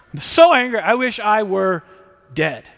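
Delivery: loud, high angry outburst from Jonah. Retold or imitated. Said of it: "Third time".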